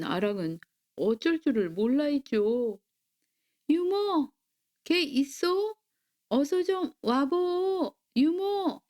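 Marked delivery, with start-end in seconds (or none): 3.7-8.8 high, drawn-out call for the nanny. A narrator's reading. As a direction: call for help in a raised pitch, without shouting. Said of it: "계속 유모를 불렀지만". (높고 길게 유모를 부르듯)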